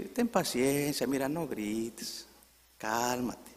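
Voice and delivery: slow, gentle plea for patience; soft answer. Acted. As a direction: answer an angry person softly, drawing the words out. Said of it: "dar una blanda respuesta". (respuesta blanda y pausada)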